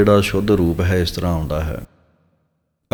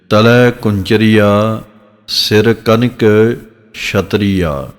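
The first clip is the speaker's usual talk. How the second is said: slow recitation; much slower than usual. Shown as a demonstration. Teacher recites scripture line slowly.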